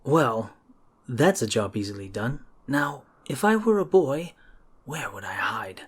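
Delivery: a lightly voiced hero thinking aloud, ending hushed; wry adventurer, musing. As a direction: puzzle it out half to yourself. Plays the searching hero.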